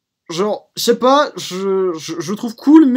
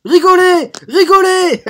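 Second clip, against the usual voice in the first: high, loud mock order to laugh; mock command; 11 semitones higher, 7 dB louder, slower than usual. Streamer yelling at chat to laugh, loud mock demand. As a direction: shout it like a pushy host demanding applause.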